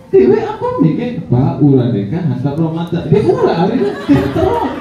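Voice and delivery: lively Bima story, acted out; teacher demoing act-out in Bima to the class; act-out storytelling in Bima. Shown as a demonstration. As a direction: tell it animated in Bima, with laughs. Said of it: "Saya pakai bahasa Bima".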